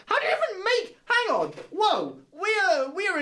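surprised. Real, not acted. Struck by a sudden question.

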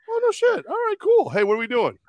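squeaky high excited teammates; high mock teammates. Teammates in the huddle react to John Candy, in a high mock voice. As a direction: pitch it way up as the startled team. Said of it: "They go".

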